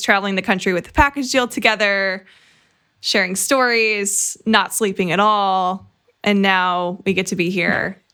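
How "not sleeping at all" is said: "not sleeping at all" drawn out slowly for emphasis; slow down to stress "not sleeping". Real, not acted. Host recalling travels with her friend, stress on "not sleeping". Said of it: "Emphasis on the no sleep".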